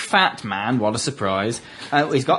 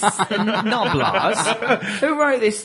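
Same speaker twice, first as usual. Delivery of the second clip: amused mock outrage through laughter; laughing disbelief; 5 semitones higher, slower than usual. Real, not acted. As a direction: start high, laughing, then drop. Mock outrage at rude names, group laughing.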